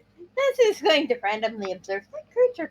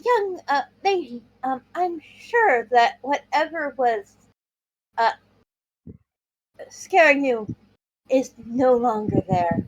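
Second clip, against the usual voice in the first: careful, gentle; 2 semitones higher than usual. Acted. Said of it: "approach as carefully as possible".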